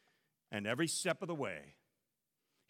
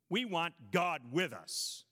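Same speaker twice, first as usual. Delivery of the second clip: taunting; 3 semitones higher, 3 dB louder than usual. Retold or imitated. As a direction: taunt him like a mocking crowd. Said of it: "they taunted".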